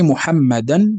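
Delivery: "محمدا" slowly, ending in -dan; fatha tanween. Shown as a demonstration. Teacher showing tanween on names, fatha tanween. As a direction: sound the final -an of "محمدا". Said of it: "هذا هو ما يسمى بالتنوين".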